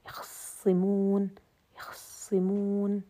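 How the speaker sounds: يخصمون said slowly, the kha vowel only partly voiced; slow ikhtilas demo. Shown as a demonstration. Teacher demonstrating ikhtilas slowly to students. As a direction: stretch يخصمون but snatch its middle vowel. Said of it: "في رواية قالون".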